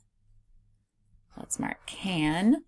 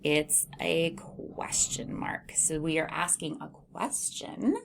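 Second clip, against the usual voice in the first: whispered aside; 2 semitones lower, 5 dB quieter than usual. Shown as a demonstration. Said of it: "teacher aside".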